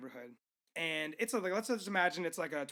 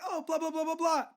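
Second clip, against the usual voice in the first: tag; 9 semitones higher than usual. Retold or imitated. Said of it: "when someone's like".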